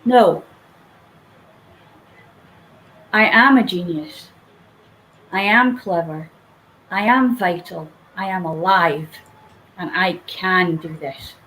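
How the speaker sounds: steady, firm self-affirmation; firm conviction. Shown as a demonstration. Coach showing listeners how to affirm themselves, with firm conviction. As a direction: state each line like you mean it. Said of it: "say with conviction".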